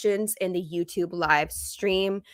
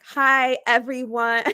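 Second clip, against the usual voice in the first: cutesy greeting; 5 semitones higher, slower than usual. Shown as a demonstration. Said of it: "say something different".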